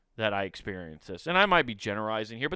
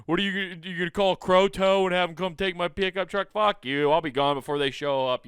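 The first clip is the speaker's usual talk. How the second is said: louder, higher mock rant; angry retort; 4 semitones higher, 5 dB louder than usual. Rude driver mouthing off at the scolder, hammed-up anger. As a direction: spit it back at him, mock defiant. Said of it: "And he's like".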